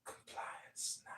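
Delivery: low, muffled mock command; robotic authority voice. Mocking the legal system, robotic and cold. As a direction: intone it like a machine.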